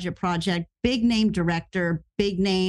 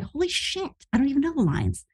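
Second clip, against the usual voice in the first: mock shock; 5 semitones higher, faster than usual. Retold shock on set.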